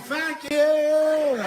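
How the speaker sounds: high, loud snapped curse; angry retort. Retold or imitated. Wife cursing at husband, high angry retort. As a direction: bite back in anger. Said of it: "She's like".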